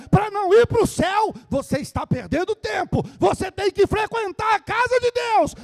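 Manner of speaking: shouted, high-pitched sermon delivery; full-force preaching. Real, not acted. Preacher rebukes believers playing at church, fiery shouting. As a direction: thunder it at the congregation, relentless and high.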